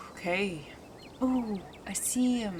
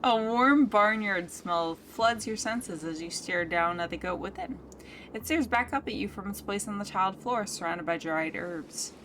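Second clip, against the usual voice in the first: story narration. A narrator's reading. Game narration read aloud.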